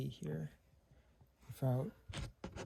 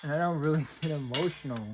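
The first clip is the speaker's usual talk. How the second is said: quick, higher words broken by a real laugh; 4 semitones higher, faster than usual. Real, not acted. Reunited with a lost item, laughing while denying emotion. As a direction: laugh through the denial of being emotional. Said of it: "Man, this is an emotional moment for me".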